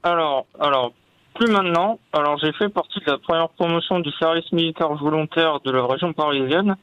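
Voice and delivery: talking with a locked jaw; barely opening the jaw. Real, not acted. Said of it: "j'ai la mâchoire bloquée".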